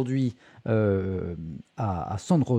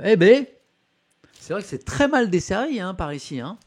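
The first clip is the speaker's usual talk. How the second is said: higher, louder mock Macron, casual and a bit smug; Macron cartoon voice; 7 semitones higher, 5 dB louder than usual. Streamer quotes a cartoon Macron to a Marseille resident in a higher, louder mock voice. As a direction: play the president strolling through Marseille, pleased with himself. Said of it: "dessinateur qui est Babouze lui fait dire".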